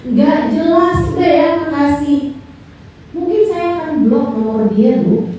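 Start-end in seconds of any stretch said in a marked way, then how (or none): 0.1-1.0 offended scolding. Acted. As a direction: complain you are busy and being wasted. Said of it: "saya malah akan tersinggung".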